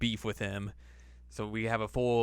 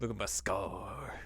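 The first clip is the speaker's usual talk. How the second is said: laughing slow line; 2 semitones lower, 9 dB quieter, slower than usual. Retold or imitated. Voicing Naraku laughing.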